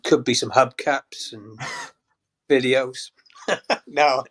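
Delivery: slow, giggling through a silly list; laughing joke. Real, not acted. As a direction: laugh the words out as you joke. Joking about pie contents.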